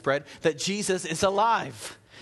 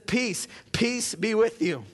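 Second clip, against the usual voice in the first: "Peace, peace be with you" slow, higher, weighted; doubled for emphasis; 6 semitones higher, slower than usual. Shown as a demonstration. Pastor stressing the doubled greeting, slow emphatic. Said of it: "to increase the emphasis".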